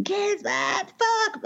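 high strained yell that breaks into a curse; exasperated screaming. Retold or imitated. Husband yelling for the kids while mopping water, high exasperated yell. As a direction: scream for the kids, then swear in frustration. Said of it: "He's screaming".

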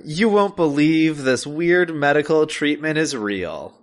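slow, slightly hyped headline read; clickbait announcer. Pretend. Podcaster pitches a clickbait episode title, mock announcer.

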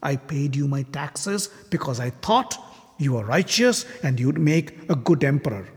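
angry accusation. Acted. Shishupala's angry tirade in the assembly.

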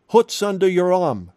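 quick, mock-British question; British accent. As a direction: imitate a British preacher's accent. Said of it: "in his British accent".

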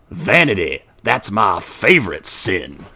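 a hint of a movie devil, drawn-out and emphatic; John Milton. Podcaster quoting the devil's last line to camera, mock villain. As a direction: savor each word slowly, lightly villainous. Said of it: "John Milton".

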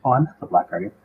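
a hint of a shifty villain denying who he is; mock Black Guardian. Co-host jokes the Black Guardian is posing as the White, mock villain voice. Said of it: "why wouldn't a Black Guardian be like".

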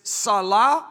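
salah spoken slowly as sah-LAH, both a's open; Hebrew word said slowly. Shown as a demonstration. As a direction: say salah slowly, each syllable clear. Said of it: "but in Hebrew".

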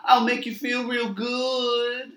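slow, sultry come-on; seductive. Acted. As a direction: purr it slowly. Seductive come-on from sketch character.

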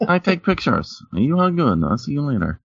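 high Asian-accented landlady impression. Landlady wrapping up with her tenant, high Asian accent. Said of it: "I was doing Asian accent".

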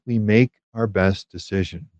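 "best" given clear emphasis; stress on best. Real, not acted. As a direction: lean on the word "best". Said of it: "I want to emphasize that word best".

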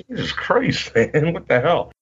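high, startled what-the-hell; shocked disbelief. Retold or imitated. Fan seeing wrestler in gym shorts, startled disbelief. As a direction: react like a fan seeing him in tiny shorts. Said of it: "And I'm like".

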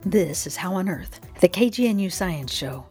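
upbeat radio host intro; cheerful science show host; bright curious science host. Acted. Radio show intro over music.

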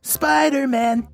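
slow, lightly voiced stereotype voice; a hint of a stereotyped accent; stereotyped Jewish voice. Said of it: "That's my, uh, Jew voice".

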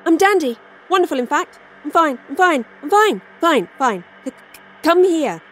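high, manic, stammering denial; unhinged manic voice. Acted. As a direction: sound like she's losing her mind. Starla cracking after seeing idol.

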